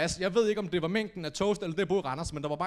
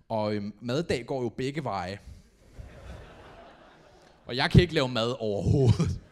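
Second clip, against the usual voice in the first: normal talking voice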